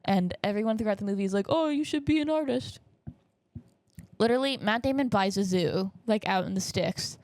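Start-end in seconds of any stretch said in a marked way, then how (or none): 1.5-2.8 high-pitched gushing onlooker; mock encouragement. Movie characters praising emo son's drawings, mock gushing. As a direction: coo it in a high put-on voice.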